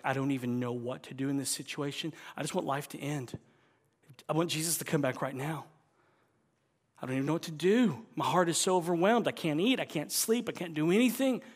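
overwhelmed believer. Retold or imitated.

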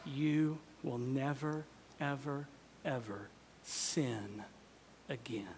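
whispered awe to the congregation; hushed whisper. Real, not acted. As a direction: lean in and whisper the promise. Dropping to a whisper.

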